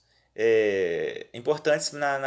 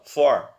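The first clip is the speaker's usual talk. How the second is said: FOR set apart as the strong syllable; FOR said alone with firm weight; stressed syllable; 6 dB louder than usual. Shown as a demonstration. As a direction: lean on FOR as the tonic syllable. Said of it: "porque é a mais forte".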